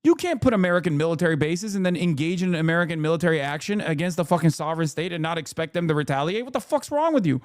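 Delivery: a heated rant at the hypocrites; exasperated outburst. Retold or imitated. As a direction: fire it back at them, fed up. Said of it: "It's like".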